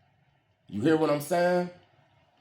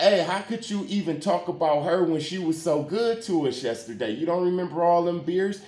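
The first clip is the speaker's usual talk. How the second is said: indignant retort; 4 semitones higher than usual. Retold or imitated. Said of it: "And I'm like".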